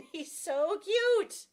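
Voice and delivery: slow, loud, laughing coo over the puppy; laughing gush. Real, not acted. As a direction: melt over how cute he is, laughing. Gushing over her puppy.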